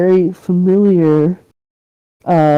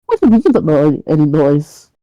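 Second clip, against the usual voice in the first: pitched-up, indignant challenge; incredulous irritation; faster than usual. Acted. Neighbour disbelieving his excuse, incredulous irritation. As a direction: throw the denial back at him, annoyed.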